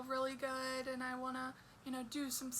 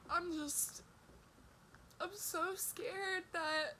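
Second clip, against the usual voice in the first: tearful, voice wobbling with fear; blubbering. Real, not acted. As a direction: cry through the words.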